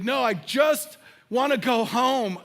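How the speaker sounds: put-on mild plea of a homesick little kid; drawn-out childhood plea, retold; homesick pleading. Acting himself as homesick child.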